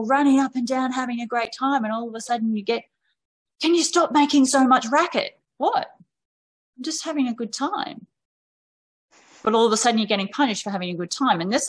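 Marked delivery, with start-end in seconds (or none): 3.6-5.4 mock tired parent. Tired parent snapping at kids. 5.6-8.1 mock innocent child. Child answering the parent.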